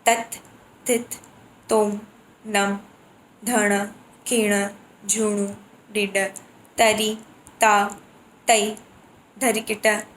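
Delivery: low, steady recitation of drum syllables; reciting mridangam bols. Shown as a demonstration. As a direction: spell out each bol, one by one. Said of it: "There are mridangam bols".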